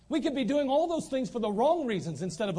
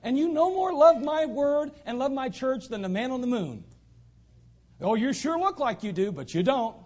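voicing God; 3 semitones higher, 3 dB louder than usual. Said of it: "and God's going".

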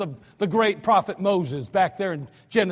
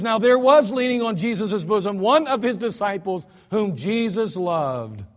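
slowing right down on the last words; slow reading. Shown as a demonstration. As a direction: linger on Jesus loved. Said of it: "Again, he says".

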